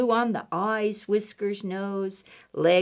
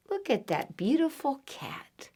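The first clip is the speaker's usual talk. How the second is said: a hushed look at this; admiring whisper; 4 semitones higher, 6 dB quieter than usual. Acted. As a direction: whisper it in awe. Admiring picture for children.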